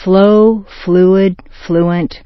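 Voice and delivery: "Flow, fluid, fluent" run smoothly. Shown as a demonstration. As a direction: let "Flow", "fluid", "fluent" glide, stepping down. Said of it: "flow together smoothly".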